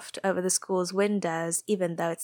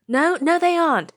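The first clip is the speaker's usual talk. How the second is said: flustered denial; 10 semitones higher, 7 dB louder than usual. A narrator's reading. Natsume embarrassed denial.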